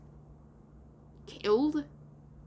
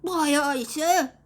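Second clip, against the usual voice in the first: high, loud aye-aye; put-on boy sailor reply; obedient crewman; 5 semitones higher, 6 dB louder, slower than usual. A narrator's reading. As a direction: snap to the captain's order in a raised voice. Boy answers his captain's order.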